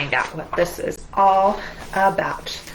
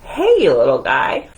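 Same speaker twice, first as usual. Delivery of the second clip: a hint of a low, louder commander; lightly voiced commander; 8 semitones lower, 6 dB louder than usual. Commander hailing the little mouse, a lightly voiced gruff boss. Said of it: "Commander says".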